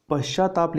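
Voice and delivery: पश्चाताप drawn out slowly syllable by syllable; slow syllable demo. Shown as a demonstration. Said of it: "आधा ता लगेगा".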